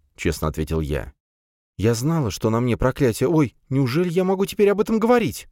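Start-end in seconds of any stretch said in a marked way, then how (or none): 1.8-5.5 higher, wondering disbelief; as if she can't believe she can say it; girl amazed at her own words; surprised. A narrator's reading. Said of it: "удивлённо пробормотала Алиса".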